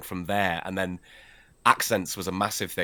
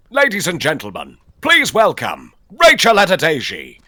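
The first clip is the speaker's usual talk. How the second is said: big booming talent-show announcer, higher and much louder; X Factor announcer; 8 semitones higher, 12 dB louder than usual. Shown as a demonstration. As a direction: announce the act to a roaring studio crowd. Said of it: "the X Factor voice".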